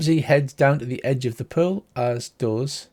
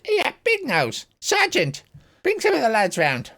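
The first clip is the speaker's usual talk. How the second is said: high-pitched, indignant commander voice; high, affronted officer character; cheeky army commander; 10 semitones higher than usual. Acted. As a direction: challenge them in a high, put-on voice.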